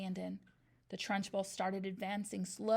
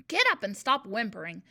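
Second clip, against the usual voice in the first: louder curt bark; 9 dB louder than usual. A narrator's reading. Headmistress ordering the fallen boy up, barking. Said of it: "the Trunchbull barked".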